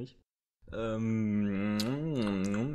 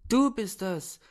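higher, pleading thug voice; 5 semitones higher than usual. Acted. Thug begs the woman who kidnapped him, pleading and higher. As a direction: wheedle and beg to be let go.

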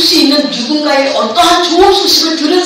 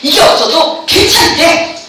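usual speaking voice

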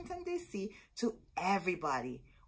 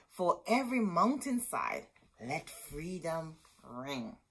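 solemn spoken lyrics. Shown as a demonstration. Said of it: "I can't sing that well, or I would have sung it".

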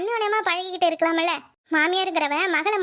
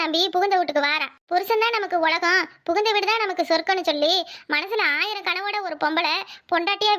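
earnest counsel; 4 semitones lower than usual. Acted. Elder woman earnestly counsels the family.

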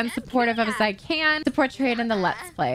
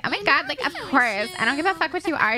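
mildly excited, higher acted voice; supportive friend; 4 semitones higher than usual. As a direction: gush acceptance as the friend. Voicing supportive friend in game.

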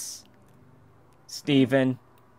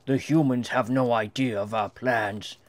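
commanding alien leader. Acted. Player voicing the character to the audience, bossy alien ruler. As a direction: proclaim like a lightly voiced alien overlord.

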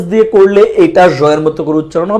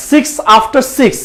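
slow demonstration; 4 semitones higher, much slower than usual. Retold or imitated. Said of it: "তো বলি".

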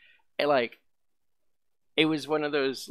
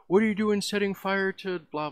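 high put-on voice of an angry stranger; mocking the guy; 11 semitones higher, 5 dB louder than usual. Guy who pissed himself accusing the narrator, in a high mock voice. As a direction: squeak it out like the weird guy accusing me. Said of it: "he's all like".

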